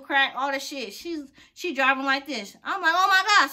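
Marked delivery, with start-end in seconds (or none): 2.9-3.5 loud, high, panicked gasp of oh my God. Retold or imitated. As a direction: blurt it out in shock, loud and high. Sees wrecked car of stalker.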